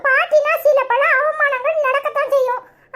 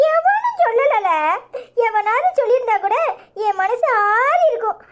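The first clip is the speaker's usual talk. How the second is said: mock wailing. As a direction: whine it out like a hammed-up dirge. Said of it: "என்னத்துக்கு ஒப்பாரி வைக்கிற?". (நகைச்சுவையான ஒப்பாரி அழுகை)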